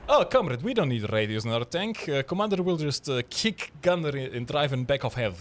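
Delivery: mock Russian accent. Officer scoffing at radios to his comrades, fake Russian accent. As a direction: play a Soviet tank officer in a cartoonish Russian accent. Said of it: "I like to think this is a Russian accent".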